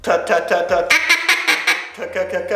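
rapid tongue clicks; feed call chuckle. Shown as a demonstration. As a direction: chuckle like a feeding duck. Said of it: "practice it and go".

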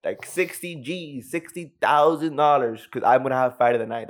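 high-pitched hollered name, then drawn-out boast; excited mock scream. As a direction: mimic a fighter crowing about a bonus, stretching the figures. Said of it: "screams out, like".

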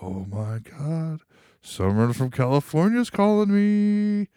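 slow, drawn-out wonder climbing very high; hammed-up awe. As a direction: stretch it out in mock thrilled disbelief. Acts job seeker thrilled by distant call.

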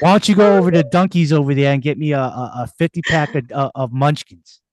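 pushy Bostonian sending someone on an errand; hammed-up Boston street talk; Boston accent. Shown as a demonstration. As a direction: boss someone about in a thick Boston accent. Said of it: "Boston, take, take one, action".

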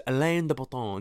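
mock French Alain de Botton; affected French ending on Botton; French pronunciation. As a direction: imitate people giving the name a French flourish. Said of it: "everyone pronounces it".

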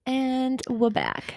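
slow, drawn-out mock British greeting; playful British-Aussie hybrid accent. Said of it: "The, the accent is back".

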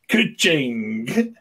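slow, drawn ka-ching; mock cash-register ka-ching. Reacting to a stumped cast member, playful cash-register imitation. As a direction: imitate a till ringing up.

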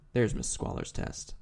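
hushed, secretive whisper; sneaky whisper. Retold or imitated. Sneaky villain reading test name.

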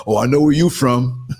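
amused, teasing quote with laughter round it; laughing mock quote. New Yorker quoting people who spot the accent, laughing mock quote. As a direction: imitate a knowing stranger between laughs.

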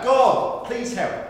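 hanging man's mild mock yell; mock yell for help. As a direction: call up to God, half-acted. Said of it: "He yells out".

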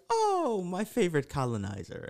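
teasing fondly. Retold or imitated. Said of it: "it's always in fun".

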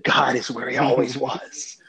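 put-on slow, drawn-out Pittsburgh accent; Doctor Sproul's Pittsburgh accent. Pastor quoting a Presbyterian's sermon after nine eleven, in a Pittsburgh accent. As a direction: imitate a preacher's measured Pittsburgh accent. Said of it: "in his Pittsburgh accent".

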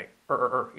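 "Er, er, er" with untrilled English R, evenly repeated; R inglesa repetida. Shown as a demonstration. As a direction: drill "Er" three times, vowel melted into the R. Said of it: "Y la R". ("Er, er, er" con R inglesa sin vibrar)

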